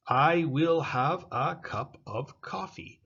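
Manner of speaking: "I will have a cup of coffee" said slowly and clearly; slow model sentence. Shown as a demonstration. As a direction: read the example sentence out slowly. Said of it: "we talked about this".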